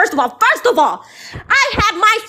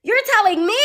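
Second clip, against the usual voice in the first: tearful outburst; 3 semitones higher, faster than usual. Real, not acted. Outraged at being told off.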